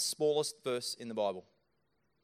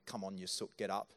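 lower, offhand brush-off; a careless friend brushing off someone crying, lower voice; dismissive mate; 4 semitones lower, 3 dB quieter than usual. Pretend. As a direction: toss it off like an impatient mate. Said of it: "not just walking alongside you".

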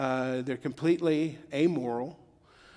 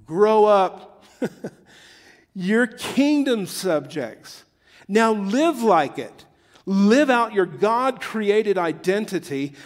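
higher, louder, slow dramatic reading of the verse; scripture reading; 4 semitones higher, 6 dB louder, slower than usual. Acted. Pastor reading the Message translation aloud, dramatic and loud. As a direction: proclaim the text to the congregation. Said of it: "let me read it to you in the Message translation".

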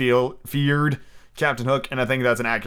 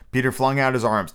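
ordinary delivery

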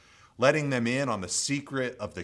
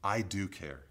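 voice of the Lord; 4 semitones lower, slower than usual. Retold or imitated. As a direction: speak as a calm, tender God comforting Nate. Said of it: "I sensed the voice of the Lord say to me".

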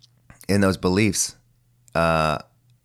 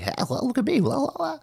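squeaky high mock wacky voice, much higher; wacky goofball; 4 dB quieter than usual. Mocking a try-hard comedian with a squeaky wacky voice. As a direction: ham up a silly attention-seeker, very high. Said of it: "That would be like wacky".

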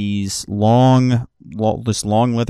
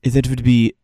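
slow, higher, courteous price; formal bartender; 4 semitones higher, 5 dB louder, slower than usual. Acted. Bartender naming the price to the party, slow and polite. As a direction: let the cost land politely.

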